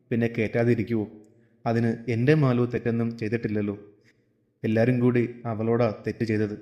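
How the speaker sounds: understated, subdued father explaining; lightly voiced father. Voices the father defending Malu. (അച്ഛന്റെ ശാന്തമായ സംയമന സ്വരം)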